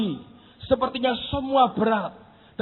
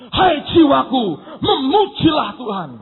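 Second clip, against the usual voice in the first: rousing command; 3 dB louder than usual. Acted. Quotes David commanding soul to praise.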